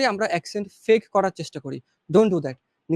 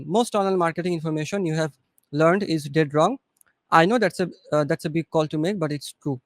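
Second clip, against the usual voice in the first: slow and calm; 3 semitones lower, much slower than usual. Shown as a demonstration. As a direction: read it slowly and calmly, no rush. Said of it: "আস্তে, আস্তে বলেন". (আস্তে, ঠান্ডাভাবে বলা)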